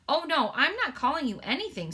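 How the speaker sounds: put-on a little girl hurrying to take it back; Sophie cries out. Sophie reassuring the offended giant, earnestly. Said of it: "Sophie cried".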